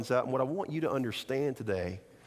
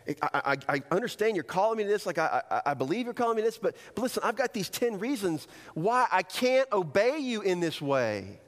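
stammering start, rising into higher protest; halting, then insistent pleading; reluctant excuse-making; 4 semitones higher than usual. Acted. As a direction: hedge nervously, then argue your case. Acting out excuses to God.

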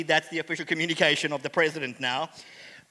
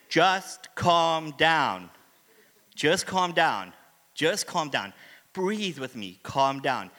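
soothing; 3 semitones lower, slower than usual. Retold or imitated. Dad calming his asthmatic son at the park, slow and soothing. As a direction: talk a panicking child down gently. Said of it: "all I have is this one thing".

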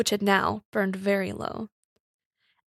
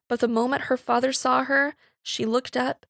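usual speaking voice

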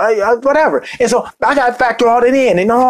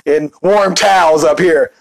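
lower, slow, snooty mock attendant brushing off coach with a laugh; mock aggressive attendant; 4 semitones lower, slower than usual. First-class crew scolding the heathens in the back, mock haughty. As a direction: lord it over the back rows, drawn out and laughing. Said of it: "and did it real aggressive".

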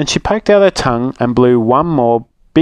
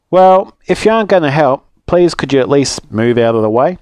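annoyed but polite, higher on the first words; exasperated woodcutter; 3 semitones higher than usual. Acted. Woodcutter asking Little Rude to move, mildly exasperated. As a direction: ask her to shift, losing patience.

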